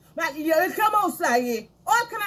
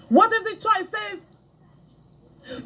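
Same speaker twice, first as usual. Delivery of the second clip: slow drawn-out question; 4 semitones higher, much slower than usual. Shown as a demonstration. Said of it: "asked again slowly".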